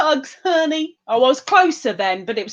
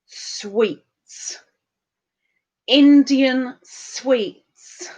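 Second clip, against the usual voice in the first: longing; much slower than usual. Real, not acted. Dreaming of Diwali sweets.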